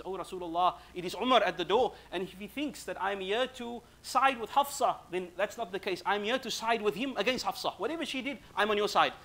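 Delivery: mild mock shout, rising in pitch; retold loud shout. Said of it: "Sayyidina Umar shouts loudly".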